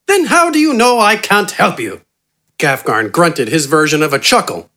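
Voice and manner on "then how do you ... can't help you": high, genteel, self-assured bargaining voice; eccentric doctor Wither. A narrator's reading. Wither smoothly bargaining with Gafgarn for his help. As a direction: purr the offer like a smug English gentleman.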